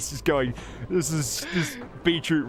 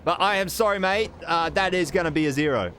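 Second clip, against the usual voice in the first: higher, smug mock-sorry voice; smug Banksy; 5 semitones higher than usual. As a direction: rub it in with fake politeness. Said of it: "he's like".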